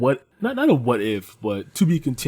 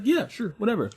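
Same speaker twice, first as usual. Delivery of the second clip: high, careless mock brush-off; bored girl's brush-off; 8 semitones higher than usual. The crush answering his date offer, high and careless. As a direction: toss it off like she couldn't care less. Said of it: "she's like".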